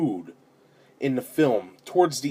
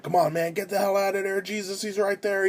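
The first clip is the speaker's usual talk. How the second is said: high, tense urging kept under full volume; retold panicky moviegoer, pitched up; anxious urging; 6 semitones higher, 4 dB quieter than usual. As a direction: replay pleading with a movie character to escape. Retold urging at the film screen.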